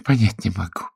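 displeased tone. A narrator's reading. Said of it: "недовольным тоном произнесла женщина".

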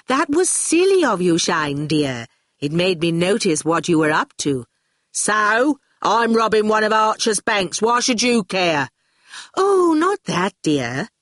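Dillion chiding sweetly. Acted. Dillion scolds Shine over the bank job, chiding. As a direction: gently tell off an underling, pitch swooping up.

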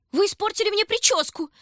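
very high, loud squeal; shrieking doll. A narrator's reading. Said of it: "завизжала та".

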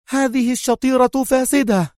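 high, sharp complaint of an offended diner; feigned anger. A narrator's reading. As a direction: pitch it high and indignant. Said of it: "قائلة في غضب".

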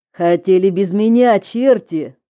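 loud, gleeful jeering; cackling hell torturer. Acted. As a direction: bark it with nasty glee. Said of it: "нехорошо захихикал".

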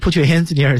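high, sing-song party shout; disco party call. Shown as a demonstration. DJ calling to the crowd in a disco, hyped. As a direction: call it like a DJ hyping the dance floor. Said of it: "像那迪厅的感觉".

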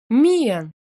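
loud sharp call of the name; exclaimed name. Acted. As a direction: cry out her name in alarm. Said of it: "воскликнула Ремин". (громко воскликнуть имя)

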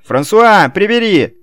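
громкий высокий окрик; резко крикнуть слуге; крик. A narrator's reading. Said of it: "крикнуло". (нечто кричит дворецкому прибрать)

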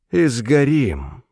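drawn-out, unruffled reply; calm addition. A narrator's reading. Falling Luke calmly adds to his companion, slow and placid. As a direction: say it slowly, with mild calm. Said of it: "спокойно добавил он".

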